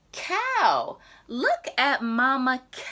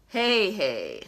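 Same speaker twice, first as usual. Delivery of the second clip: mock whinnying; whinny like a horse; horse neigh; 2 semitones lower than usual. Reviewing the sounds, mock horse whinny. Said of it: "let's see if I got the sounds right".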